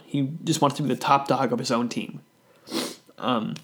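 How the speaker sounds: sniffly, sick voice; sniffling. Real, not acted. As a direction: talk with a runny nose. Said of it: "sorry about all the sniffling".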